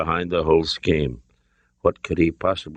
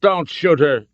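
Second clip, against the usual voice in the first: raised, high-pitched urgent yell; 9 semitones higher, 4 dB louder than usual. A narrator's reading. Son protects the hostage, urgent yell. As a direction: yell to stop the shot. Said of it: "Andy yelled".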